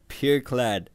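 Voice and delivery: lightly gentle, placating address. A narrator's reading. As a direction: soothe someone as if a small child. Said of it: "sort of very gentle voice".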